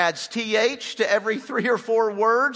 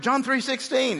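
proud; 7 semitones higher than usual. Pretend. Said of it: "say it like you're proud".

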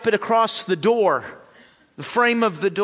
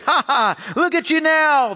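higher, louder mocking shout; yelling taunt; 8 semitones higher, 4 dB louder than usual. A narrator's reading. Passersby yell abuse at Jesus, higher louder taunt. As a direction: jeer loudly at the man on the cross. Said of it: "they yelled at him".

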